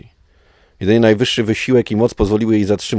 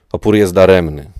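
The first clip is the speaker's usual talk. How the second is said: growled; 5 dB louder than usual. Acted. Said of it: "warknął".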